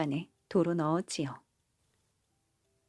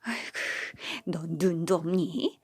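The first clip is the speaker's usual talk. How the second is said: huffing at daughter-in-law; 3 semitones higher than usual. Acted. Mother-in-law scolding the daughter-in-law over the cow, huffy scolding. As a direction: fume at her for not watching. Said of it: "아내는 며느리에게 씩씩대며 화를 냈어요".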